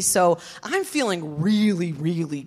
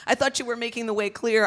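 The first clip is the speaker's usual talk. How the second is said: upset at God; 7 semitones higher than usual. Retold or imitated. Telling her pity party, she rails at God in a high voice. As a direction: cry out your grievance to God. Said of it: "I'm like".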